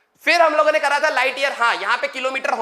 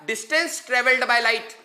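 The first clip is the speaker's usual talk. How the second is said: very slow, each word spaced for notes; slow dictation; much slower than usual. Shown as a demonstration. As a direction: dictate slowly so students can write. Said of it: "बहुत धीरे धीरे बोल रहा हूं". (बहुत धीरे धीरे बोलना)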